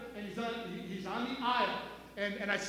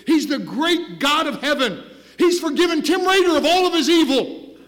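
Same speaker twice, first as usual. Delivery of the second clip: loud, driving altar call; preaching at full force; 3 semitones higher, 10 dB louder than usual. Acted. Pastor urging unsure listeners to come to Jesus, loud preaching. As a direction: press the appeal home, forceful.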